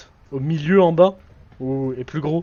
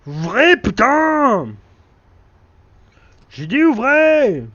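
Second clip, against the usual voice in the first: higher, louder demanding yell; mock shout; 9 semitones higher, 5 dB louder, much slower than usual. Gamer yells at a locked door to open, mock shout. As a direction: bang on the door with your voice.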